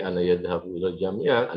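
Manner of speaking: "yadhabu" with a wrong ya- prefix after "ana"; learner's error yadhabu. Shown as a demonstration. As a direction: say "yadhabu", starting with a y-glide. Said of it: "jangan lagi".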